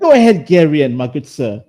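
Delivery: light mock British accent; lightly put-on British politeness. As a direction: play at being a polite British gent. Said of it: "we are gonna be British".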